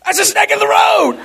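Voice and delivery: high, amused mock-cool voice; deadpan mock-calm remark. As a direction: play it cool with a laugh. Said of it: "I says".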